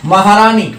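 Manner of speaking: महारानी with रा held long and leaned on; महारानी said slowly, weight on रा; stress on रा. Shown as a demonstration. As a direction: lean on रा in महारानी, not on नी. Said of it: "रा होगा".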